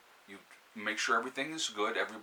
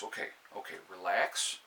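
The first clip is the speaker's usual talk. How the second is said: calming yourself down; 2 semitones lower than usual. Shown as a demonstration. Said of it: "Say to yourself".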